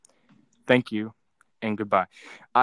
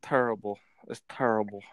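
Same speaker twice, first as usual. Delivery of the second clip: lightly imitated catchphrase, a bit lower; Charles Barkley; 4 semitones lower than usual. Streamer toys with the word terrible, light celebrity impression. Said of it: "I'm like Charles Barkley".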